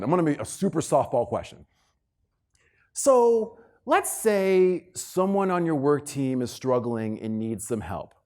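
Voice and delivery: normal talking voice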